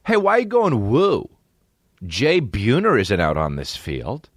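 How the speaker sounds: high mock scolding, slowing down; mock outrage. Comic scolding an audience member who whoops, high and slow.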